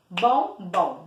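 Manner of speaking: "Bombom" as two separate beats, BOM, BOM; low, split "Bombom" into two syllables; "Bombom" measured out syllable by syllable. Shown as a demonstration. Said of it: "Bati duas vezes".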